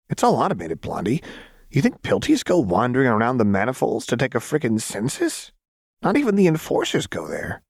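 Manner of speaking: put-on a lighter touch of the high, scornful girl; a hint of manic mockery; Jinx's voice. Jinx voiced in the story.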